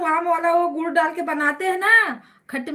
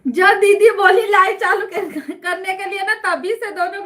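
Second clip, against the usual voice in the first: laughing; 3 semitones higher, 5 dB louder than usual. Real, not acted. Laughing while telling.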